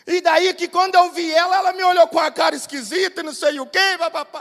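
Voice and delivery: high, rapid mock grievance; hammed-up tearful ranting; imitated upset wife. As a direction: babble on like an offended woman. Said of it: "você tá chorando desse jeito".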